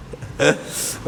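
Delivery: soft, breathy little laugh; short chuckle. Real, not acted. Teacher laughing after calling the class crazy, soft chuckle. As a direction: chuckle quietly at your own joke. Chuckles at own example sentence.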